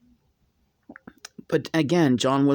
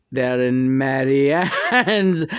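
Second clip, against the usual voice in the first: John's channeled voice; 2 semitones lower, slower than usual. Retold or imitated. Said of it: "Where are the professor".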